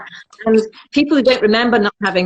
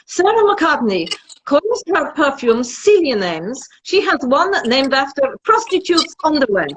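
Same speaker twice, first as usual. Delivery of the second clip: reading out a Russian reviewer's blog post in a put-on Russian accent; mock Russian accent; 5 semitones higher than usual. Reading a Russian critic's review aloud in mock Russian accent. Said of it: "I have to do it in a Russian accent".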